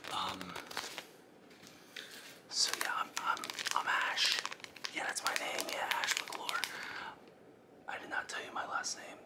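hushed ASMR voice with jittery nerves; ASMR whisper. Acted. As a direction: whisper like a creepy ASMR host. Whispering intruder.

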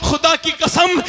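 high ringing oath cry; shouted oath; fervent shout. Acted. Preacher swears an oath.

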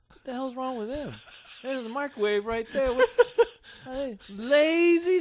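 tag. Retold or imitated. Acting out own baffled reaction.

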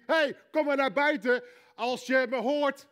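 a careless shout, as if to anyone; mock casual summons Jesus doesn't use; casual call. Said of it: "dan zegt hij niet".

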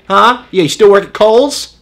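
a hint of an irate shopper; mad coupon mom. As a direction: demand service like a fed-up mom. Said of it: "that mom that is really mad at the coupons".

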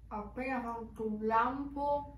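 speaking behind hand over mouth; talking while chewing. Real, not acted. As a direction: mouth full of pizza. Seen 5: bites pizza, then chews with hand covering mouth.

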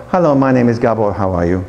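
imitated Hungarian English, sinking very low; Hungarian English intonation. Teacher imitates Hungarian students introducing themselves, falling Hungarian intonation. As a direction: start high and slide down, Hungarian-style. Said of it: "They start very high and finish very low".

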